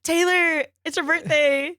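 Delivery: high, singing-out announcement; mock calling out. Runner re-enacts announcing the singer's birthday mid-race, mock calling out. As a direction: call it out high to the others.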